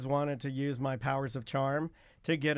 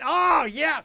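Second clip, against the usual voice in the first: high, loud gleeful cheer; hammed-up victory cry; mock triumph; 9 semitones higher, 5 dB louder than usual. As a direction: celebrate a scam that worked. Celebrates the imagined signature.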